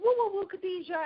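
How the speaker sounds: high singsong woo woo woo; Sinclair catchphrase. Retold or imitated. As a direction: coo it at a friend on set. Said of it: "I was like".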